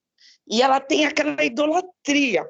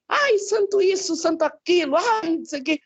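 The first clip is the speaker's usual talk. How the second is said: higher-pitched imitation of a frantic plea; mock pleading to saints; 4 semitones higher than usual. Daughter retelling mother calling on saints in the car, mock pleading. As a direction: mildly imitate crying out to the saints. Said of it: "ela clamando pelos santos".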